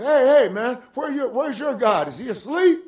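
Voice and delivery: high, loud jeering call; mocking taunt. Elijah taunting the prophets of Baal about their god, mocking. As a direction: needle them like you're calling out a rival.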